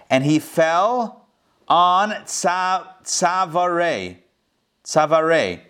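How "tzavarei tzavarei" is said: "tzavarei" said slowly, syllable by syllable, as in Hebrew; Hebrew word slowly. Shown as a demonstration. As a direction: spell out "tzavarei" sound by sound. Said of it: "That means necks".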